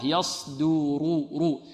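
يصدر with the R trilled heavy, very slow; heavy rolled R. Shown as a demonstration. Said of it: "والراء مفخمة". (راء مفخمة مكررة)

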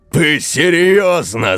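high, slow incredulous yell; stunned man yelling down the line; outraged shout. Acted. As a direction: shout it in disbelief. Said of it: "закричал Серёга".

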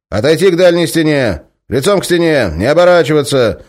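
loud, high drilled orders; rote commands. Acted. Guard repeats memorized orders, loud and rote. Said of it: "монотонно повторял заученные фразы".

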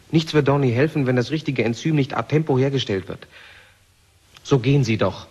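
a forceful push under time pressure; urgent loud orders. Acted. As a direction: drive her to hurry. Urgent orders to Judy in crisis.

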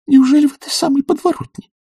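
put-on high, complaining girlish voice; weepy young lady. A narrator's reading. Typist complains tearfully to the professor about her suitor. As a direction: pour out her grievances in a high plaintive voice.

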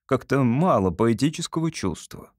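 mildly hesitant father; cautious question. Acted. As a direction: venture the criticism carefully. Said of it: "осторожно спросил папа".

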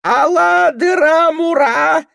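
put-on high bleating drunk yell; goat-like bleating. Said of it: "козлом блеет Илья Сахатых".

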